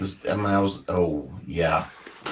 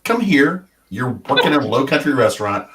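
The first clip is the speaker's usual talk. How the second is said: stern scolding; 4 semitones higher, 3 dB louder than usual. Retold or imitated. Retold scolding of waiter.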